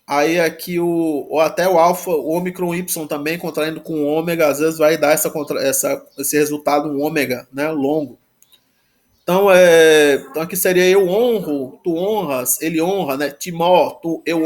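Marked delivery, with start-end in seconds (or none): none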